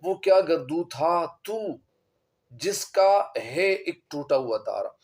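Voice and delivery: slow, measured verse delivery; poetry recitation. Acted. Teacher recites Iqbal's verse to students, slow poetic recitation. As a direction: recite the couplet slowly, word by word.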